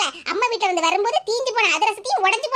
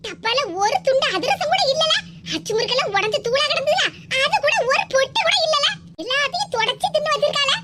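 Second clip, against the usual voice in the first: higher-pitched, aggrieved griping; indignant complaint; 4 semitones higher than usual. Acted. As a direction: complain to your son, mildly outraged. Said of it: "இதுக்கெல்லாம் போய் கோவப்பட்டுட்டு இருந்தா". (ஆத்திரத்தோடு புகார் சொல்லும் குரல்)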